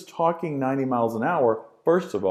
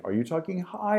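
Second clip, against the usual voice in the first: high-pitched question, rising at the end; 7 semitones higher, 3 dB quieter than usual. Shown as a demonstration. Teacher demonstrates voice modulation to students, high pitch. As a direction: raise the voice, climbing on "high". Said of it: "think of voice modulation".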